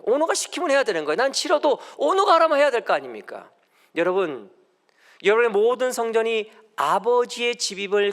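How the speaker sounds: high, loud preaching voice; emphatic preaching. Acted. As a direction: drive it home to the congregation, loud and high. Preaches at full force. (힘주어 외치는 설교)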